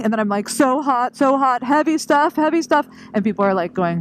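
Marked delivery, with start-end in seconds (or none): 0.5-2.9 strained complaint. Retold or imitated. Running, overheated, carrying gear.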